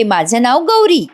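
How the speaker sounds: lightly voiced little girl lisping, slow; a hint of a small child's babble; childish lisp. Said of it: "अशी बोबडं बोबडं बोलते". (बोबडं बोलणारी लहान मुलगी, हलकासा आवाज)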